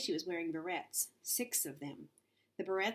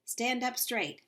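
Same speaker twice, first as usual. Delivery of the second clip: stern command; 6 semitones higher, 4 dB louder, slower than usual. A narrator's reading. Coach shouting orders.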